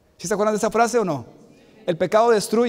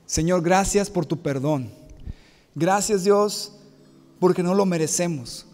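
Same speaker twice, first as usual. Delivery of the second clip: closing prayer; 2 semitones lower than usual. Acted. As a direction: pray to God for the congregation, slowing and fading. Closing prayer after "Vamos a orar. (oración pastoral sentida que se apaga al final)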